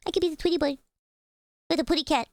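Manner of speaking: high Tweety Bird-style cartoon voice. Offering chat a Tweety Bird voice, high and cartoonish. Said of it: "this voice remind me of Porky Pig".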